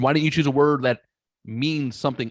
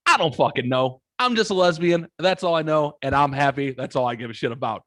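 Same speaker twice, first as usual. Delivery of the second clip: imitating exasperated daughter; 4 semitones higher than usual. Retelling a friend's daughter answering his rant, mock exasperated. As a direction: throw it up like you give up. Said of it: "most fucking, your daughter way, throws her hands up".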